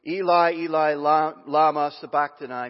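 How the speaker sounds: loud, anguished call out; loud cry. Acted. Jesus crying out to God at the ninth hour, loud anguished call. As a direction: cry out to heaven in pain. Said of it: "cried out with a loud voice".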